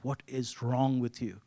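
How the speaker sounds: slow, exasperated inner scold. Retold or imitated. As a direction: drag it out in disbelief. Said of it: "in my heart was like".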